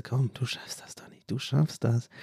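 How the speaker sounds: hushed, whispered "you can do it"; soft secret cheering from the audience; quiet encouragement. Pretend. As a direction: whisper it under your breath like a proud parent. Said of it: "sagt ihr so ganz leise".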